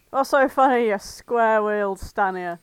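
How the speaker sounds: snapping. Acted. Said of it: "Mallard snapped at him".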